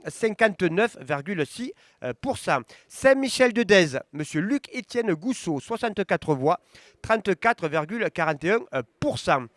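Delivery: results read-out. Acted. Reading election results to viewers, steady announcer voice. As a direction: call each town, then the numbers. Reads commune results aloud.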